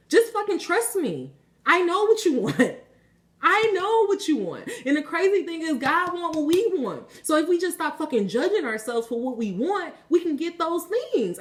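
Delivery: high, fervent insistence; passionate. Real, not acted. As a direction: plead the point with real passion. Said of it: "I'm getting so passionate".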